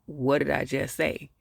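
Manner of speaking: slow, measured repeat of the question; mock insistent question. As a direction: spell it out slowly, lightly insistent. Same question repeated, slower.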